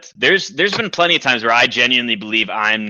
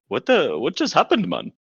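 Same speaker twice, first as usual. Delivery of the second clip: stunned question; 7 semitones higher than usual. Retold or imitated. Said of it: "he was like".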